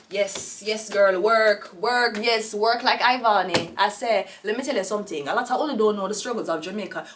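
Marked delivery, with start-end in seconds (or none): 0.1-3.7 loud cheering chant of work; hype cheer. Real, not acted. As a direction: pump her up. Cheering the worker on.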